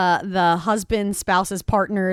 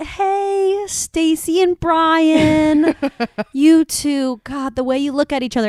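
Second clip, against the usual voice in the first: mock, acted voice, pitched higher; 8 semitones higher than usual. Imagining giving a wedding toast for hire: mock wedding toast. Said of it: "Could you imagine us coming up, eh, and being like".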